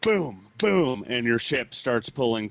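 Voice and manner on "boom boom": booming impact noise, pitched up; imitated harpoon thud. Game master imitates harpoons hitting the ship, punchy booms. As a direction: voice two heavy thuds, punched out. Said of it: "It goes".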